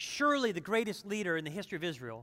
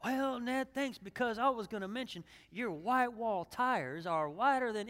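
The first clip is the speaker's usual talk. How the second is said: put-on light Southern accent, another car guy answering back; a hint of a friendly Southern car buff returning the compliment; mild Southern accent, chatty and pleased; Southern drawl; 2 semitones higher, 3 dB quieter than usual. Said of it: "why they talk so Southern".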